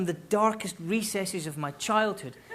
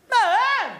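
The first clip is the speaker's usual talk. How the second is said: high, loud wailing MUM; more of a cry; 10 dB louder than usual. Shown as a demonstration. Child still unanswered by mum, crying out. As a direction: wail MUM as nothing comes back. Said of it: "less of a call and more of a cry".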